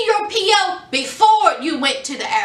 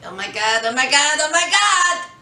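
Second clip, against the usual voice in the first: rising disbelief. Real, not acted. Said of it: "rising exclamation".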